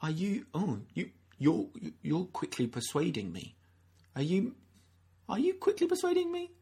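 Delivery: lightly voiced intrigued king; musing wonder. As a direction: turn it over in your mind, half amused. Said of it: "No, he's, he's saying".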